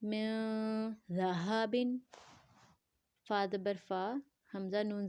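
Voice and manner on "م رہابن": long nasal "م", then "رہابن" starting with a soft th as in "this"; soft dhaal. Shown as a demonstration. Teacher models the gentle letter dhaal, soft articulation. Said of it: "زال کو نرمی سے پڑھیں گے".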